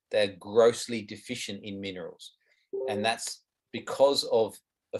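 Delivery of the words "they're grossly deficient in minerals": firm stress on "grossly"; emphatic stress. Real, not acted. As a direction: lean on "grossly" to drive it home. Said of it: "I can't emphasize that word enough".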